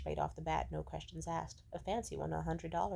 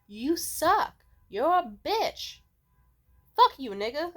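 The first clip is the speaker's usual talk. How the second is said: acted rant rising higher and louder; angry telling-off; 4 semitones higher, 5 dB louder than usual. Comic heroine rejecting a marriage proposal, escalating angry telling-off. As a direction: build to loud, high, stretched-out insults. Acting her furious rejection speech.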